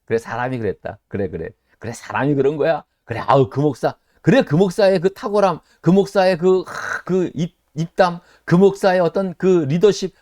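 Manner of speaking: a sly, pleased devil egging people on; mocking Satan. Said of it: "사탄은 오히려 웃어요". (부추기며 비웃는 사탄 목소리)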